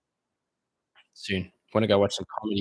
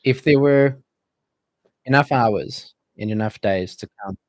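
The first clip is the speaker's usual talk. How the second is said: mock romantic speech. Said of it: "I can see your mouth quivering, trying to not laugh".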